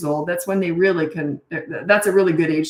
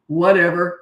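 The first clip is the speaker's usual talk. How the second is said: firm whatever; 4 dB louder than usual. Retold or imitated. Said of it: "her kids had never heard her talk like that before".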